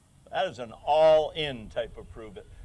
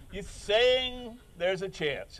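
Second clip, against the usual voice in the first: movie quote; 4 semitones higher, slower than usual. Retold or imitated. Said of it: "When he said".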